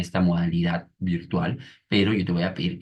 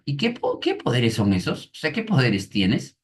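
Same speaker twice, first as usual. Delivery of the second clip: padre intrigado; 5 semitones higher than usual. Retold or imitated. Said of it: "el padre le pregunta".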